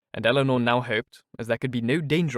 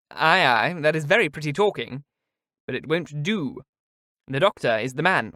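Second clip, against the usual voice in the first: Mrs Jennings, teasing; 3 semitones higher, 3 dB louder than usual. Acted. Mrs Jennings teasing Miss Steele.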